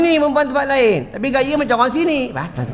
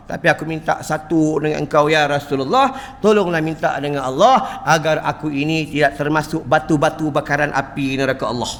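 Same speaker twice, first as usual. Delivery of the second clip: fearful plea; 7 semitones lower than usual. Acted. Stone pleads, fearing hellfire.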